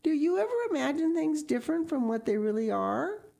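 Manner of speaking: put-on high-pitched wondering child's question; wide-eyed. A narrator's reading. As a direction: ask in innocent amazement, voice way up. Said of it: "wide-eyed".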